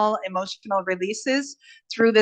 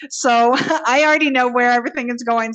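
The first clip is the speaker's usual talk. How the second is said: laughing through the words; a real chuckle breaking in; chuckling; 3 semitones higher, 6 dB louder, faster than usual. Real, not acted. Host chuckling to her meditation group about what's coming. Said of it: "kind of chuckling a little bit".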